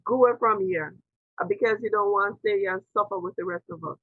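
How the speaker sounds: imitating a friend's Jamaican twang; Jamaican patois. Friend rebuking her wish to leave, in Jamaican patois. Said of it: "I will say it the way he said it".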